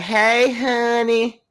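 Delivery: high, loud country Mississippi drawl; playful, exaggerated Mississippi-accent impression; Scotty. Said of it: "That's how Scotty be talking".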